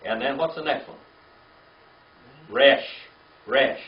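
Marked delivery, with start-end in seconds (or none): 2.5-3.8 calling out the letter. Shown as a demonstration. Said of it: "That's the R".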